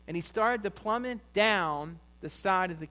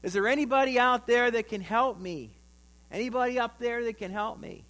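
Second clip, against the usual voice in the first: high, loud acted call for help; crying out; 7 semitones higher, 7 dB louder than usual. Falling man hangs from a branch, crying out for help. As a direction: shout up for rescue, easing after the first cry. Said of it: "And he cries out".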